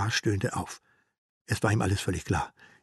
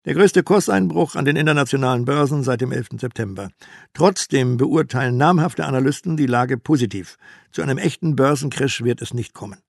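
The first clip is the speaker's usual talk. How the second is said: loud, assured announcer read; radio analyst; 5 dB louder than usual. Acted. Radio analyst downplaying the crash, loud and assured. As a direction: sell the crash as harmless, confidently.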